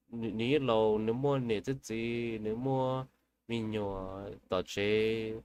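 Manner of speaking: slow, kneeling plea in a foreign tongue, lightly imitated; half-chanted begging to the forest spirit; pleading prayer in her language. Wife on her knees begging the forest spirit, slow mild pleading chant. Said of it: "getting on her knees saying".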